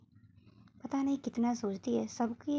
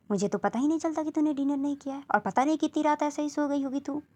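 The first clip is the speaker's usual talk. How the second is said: loud mother scolding; 5 dB louder than usual. Acted. माँ dinner न करने पर डांटती है.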